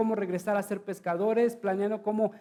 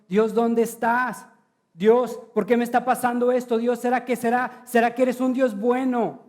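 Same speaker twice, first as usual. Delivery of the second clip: anguished plea; 3 semitones higher, 5 dB louder than usual. Acted. Voicing a doubting believer's prayer.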